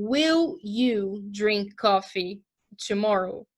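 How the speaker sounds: slow, careful example question; deliberate classroom example; slow teacher model. Shown as a demonstration. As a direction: read it out slowly for learners. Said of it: "teacher demo of a question".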